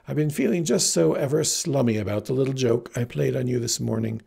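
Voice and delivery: affected, hammed-up graciousness; fanciest tone. Heroine explains away her joke to the farm boy, fancy and affected. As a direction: put on grand, fussy airs. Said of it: "said in her fanciest tone".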